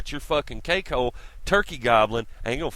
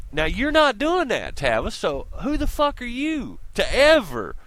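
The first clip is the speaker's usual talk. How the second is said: higher, louder angry rant; 9 semitones higher, 4 dB louder than usual. Real, not acted. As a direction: call him out hard. Ranting at Tavis.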